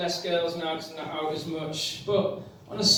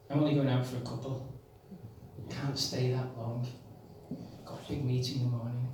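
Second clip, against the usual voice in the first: mock excuse; 6 semitones lower, 8 dB quieter, faster than usual. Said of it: "how often do you hear the expression".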